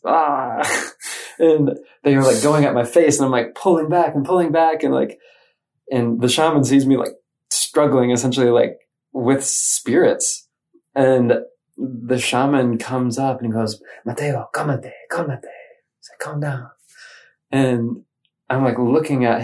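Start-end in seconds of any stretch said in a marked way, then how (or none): 0.0-0.6 mock frightened cry. Recoiling from bad spirits flying at him. 14.0-16.7 soft, slightly raised voice of a shaman; steady him with a gentle, firm order; commanding but calm. Retold or imitated. Shaman settling a struggling man, calmly commanding. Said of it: "very commanding, but calm".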